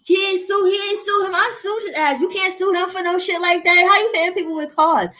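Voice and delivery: high-pitched, outraged disbelief; incredulous protest. Real, not acted. Listener hearing a private was hit by car, incredulous protest. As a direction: react in real indignation, voice pitched right up.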